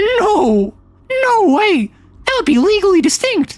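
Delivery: very high, swooping, squeaky voice. Showing how high their voice can go, doing a high Mickey voice. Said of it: "I can't keep that voice".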